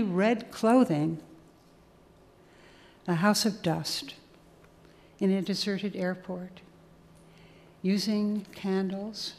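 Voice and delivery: measured recital with pauses between phrases; evenly paced reading, each line set apart; poem reading. Acted. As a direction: read it as a list poem, phrase by phrase. Reads a poem aloud.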